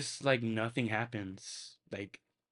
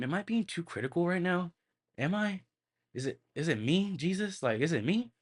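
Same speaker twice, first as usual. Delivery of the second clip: self-doubting; 6 semitones higher than usual. Retold or imitated. Self-doubting inner voice quoted.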